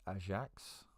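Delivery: Ajax said Dutch style as "ah-zhaks" with a rising end; light Dutch accent on Ajax. Pretend. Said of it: "Been loving the Dutch accents today".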